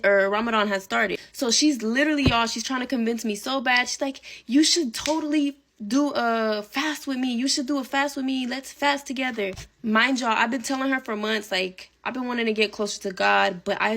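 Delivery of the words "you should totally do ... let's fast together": imitating the bestie pleading to fast together; coaxing bestie voice. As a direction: lightly voice a friend talking her into it. Bestie urging her to fast.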